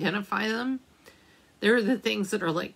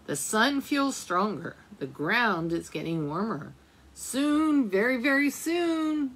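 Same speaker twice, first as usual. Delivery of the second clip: gentle storybook reading aloud; reading to children. A narrator's reading. Teacher reading a winter book to children, gentle storytelling. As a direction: read it like a picture book for little ones.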